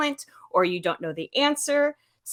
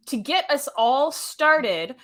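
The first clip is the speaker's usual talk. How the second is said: whispering; 4 semitones higher, much slower than usual. Real, not acted. Host whispering aside.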